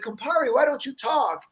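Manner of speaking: lightly voiced old Italian mother; old mom voice. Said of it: "they said".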